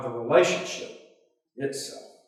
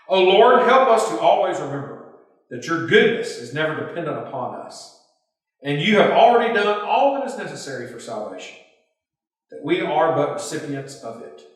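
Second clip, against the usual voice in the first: earnest prayer. Acted. Pastor leading the closing prayer for listeners, reverent prayer voice. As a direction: pray it aloud to God for the group.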